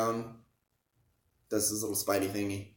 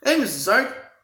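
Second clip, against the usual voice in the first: put-on much higher, louder cheerful teen greeting; mock boyish high voice; teen Spidey voice; 9 dB louder than usual. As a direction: chirp it like an eager kid hero. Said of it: "He's like".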